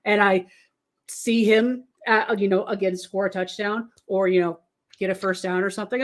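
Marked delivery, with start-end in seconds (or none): none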